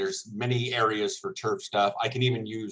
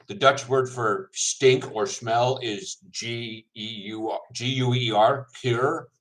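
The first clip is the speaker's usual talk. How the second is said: talking through a mouthful of food; chewing while spelling it out; mouth full; slower than usual. Real, not acted. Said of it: "I have my mouth full".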